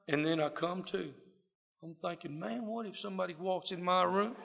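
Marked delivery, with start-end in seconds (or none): 2.4-4.3 laughing. Real, not acted. Laughing at imagined scene.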